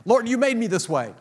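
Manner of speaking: loud, high mock whine of protest; exasperated cry to God. Sinner throwing up hands at God, loud mock whine. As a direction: throw your hands up and wail at the Lord. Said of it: "Throw my hands up".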